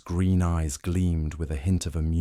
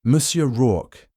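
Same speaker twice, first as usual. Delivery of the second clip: probing; 7 semitones higher, 8 dB louder, slower than usual. Acted. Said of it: "his tone conversational yet probing".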